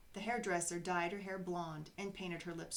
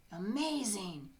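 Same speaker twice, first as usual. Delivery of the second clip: amazed gasp; 4 dB louder, slower than usual. Acted. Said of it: "he gasped".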